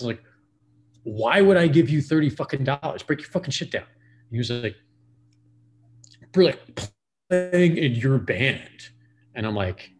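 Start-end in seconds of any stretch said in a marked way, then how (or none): 1.0-3.8 mock outburst, a bit higher and louder; retold angry retort. To the bassist who wanted his gear broken down, a retold angry retort. 6.3-8.9 higher, louder, slowed mock whine; mocking whiny bandmate. Imitating the bassist's excuse for not packing up, mocking slow whine.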